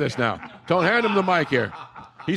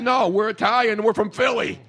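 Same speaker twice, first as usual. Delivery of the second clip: retold proud retort; 3 semitones higher than usual. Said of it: "I said".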